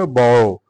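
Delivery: "borrow" with the r left barely pronounced; soft, near-silent r. Shown as a demonstration. Teacher shows learners the word, r in "borrow" nearly silent. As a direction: say "borrow", letting the r almost vanish. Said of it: "আরটা অনুচ্চারিত একটু থাকবে".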